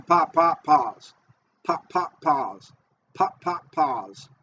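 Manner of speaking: "pop, pop" as two even beats, "pause" falling after a gap; starting cadence demo. Shown as a demonstration. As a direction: count out the retrieve: twin "pop", then a dropped "pause". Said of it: "what I always start out with".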